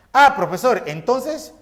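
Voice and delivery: lightly voiced student checking with the professor; student asking. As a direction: ask like a pupil working it out. Teacher voices a student's question.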